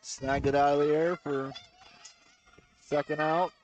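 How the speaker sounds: talking through a mouthful of food; chewing while calling the play; mouth full. Real, not acted. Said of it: "Don't talk with your mouth full".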